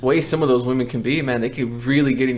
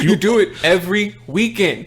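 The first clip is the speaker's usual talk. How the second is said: mock exasperation; 6 semitones higher, 3 dB louder than usual. Playing along, scolding crying mom.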